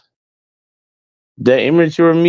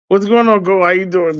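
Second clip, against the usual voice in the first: calling out; 5 semitones higher than usual. Real, not acted. Greeting a passer-by mid-story.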